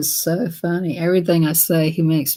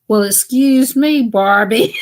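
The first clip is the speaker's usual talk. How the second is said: sarcastic retort; 4 semitones higher, 5 dB louder, slower than usual. Retold or imitated. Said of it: "And I said that".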